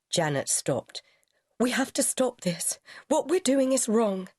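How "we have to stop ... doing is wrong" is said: cold. A narrator's reading. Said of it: "He heard her coldness".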